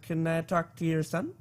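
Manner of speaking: slow, put-on character voice; a hint of a slow tough guy; lightly voiced TV character. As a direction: imitate him badly, slowly. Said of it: "he doesn't sound like that".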